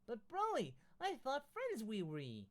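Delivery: high, loud playful jab; a mock-hurt teasing whine. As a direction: needle him in a silly voice. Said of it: "Goku said with teasing".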